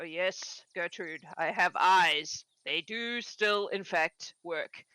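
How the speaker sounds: low, slow and drily patient; weary old husband. Acted. Old man on the porch answers his wife, slow and dry. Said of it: "hear the old man from the porch go".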